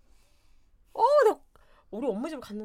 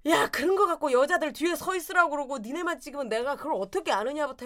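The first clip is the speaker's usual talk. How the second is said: mock angry retort; 4 semitones higher, 5 dB louder than usual. Wife arguing back.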